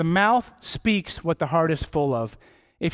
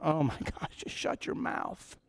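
muttered exasperation; 11 dB quieter than usual. Retold or imitated. Listener fed up with a chatterbox, whispered mock plea. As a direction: breathe it out under your breath, fed up. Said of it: "and you're going".

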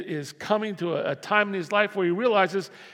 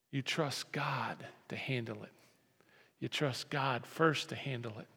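breathy hushed emphasis; whisper; 5 semitones lower, 10 dB quieter than usual. Real, not acted. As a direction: drop to a whisper to make it land.

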